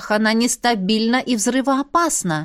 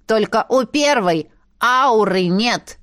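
proud announcement; 3 semitones higher, slower than usual. Acted. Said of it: "гордо объявил гном".

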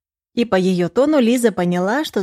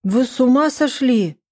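higher, aghast mother; shocked mother gasping at the news, higher; 6 semitones higher, 3 dB louder than usual. Acted. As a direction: gasp it out in disbelief. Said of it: "Снова ахнула мама".

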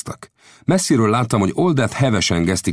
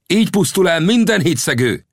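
high, ringing proclamation; vengeful cry; 13 semitones higher, 4 dB louder than usual. A narrator's reading. Winnetou proclaims the traitor's death, a high vengeful cry. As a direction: cry out the verdict on a high pitch. Avenger cries out after shooting traitor.

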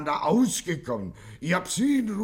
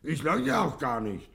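desperate pleading; 6 semitones higher than usual. Acted. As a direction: beg the inspector to let you out. Gangster begs to be released.

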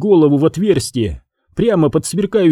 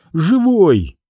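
tearful exclaim; 5 semitones higher than usual. A narrator's reading. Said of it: "восклицает она".

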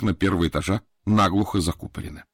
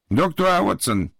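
put-on slow, smiling greeting with a Japanese accent; beaming Japanese servant; 6 semitones higher, slower than usual. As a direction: greet him with a broad smile. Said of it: "сияя улыбкой". (сияя улыбкой)

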